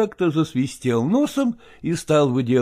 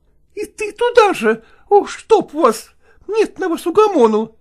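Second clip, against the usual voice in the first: high, loud scolding cook; fending off; 11 semitones higher, 5 dB louder than usual. Acted. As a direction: snap back at the pestering men. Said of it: "отбивалась та".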